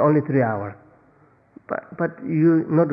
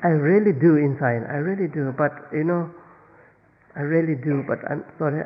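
feigned regret; 2 semitones higher than usual. Pretend. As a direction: apologize with overdone, put-on sincerity. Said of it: "and you pretend".

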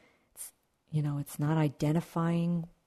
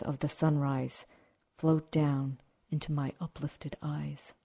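poem reading. Acted. Poem read at start of talk.

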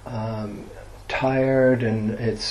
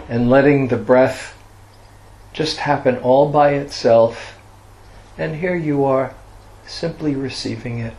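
guided meditation. Real, not acted. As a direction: guide listeners gently into resting, leaving long silences.

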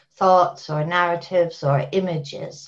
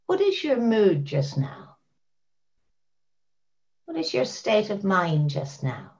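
guided reflection. Real, not acted. Teacher asks listeners to check in on their mood, guided reflection. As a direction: gently invite them to look inward, leaving space. Leads a short inward check-in.

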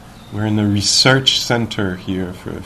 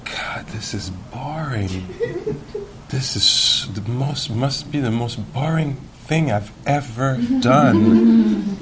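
slow, exasperated groan of boredom, starting hushed; acted boredom; 4 semitones higher, slower than usual. Retelling a first meditation sitting, hammed-up boredom. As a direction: drag it out, rising into mock exasperation. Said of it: "And I was sitting there".

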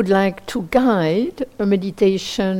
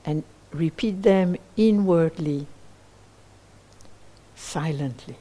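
guided meditation. Acted. Teacher leading listeners toward appreciative joy, in a spacious guided meditation voice. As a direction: guide gently, leaving long silences between phrases.

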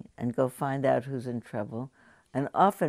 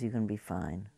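reassuring; 5 semitones lower, 8 dB quieter than usual. Retold or imitated. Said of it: "the first thing that you hear is".

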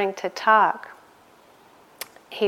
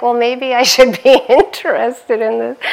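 mock sudden interest; 3 semitones higher, 8 dB louder than usual. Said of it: "suddenly it's like".

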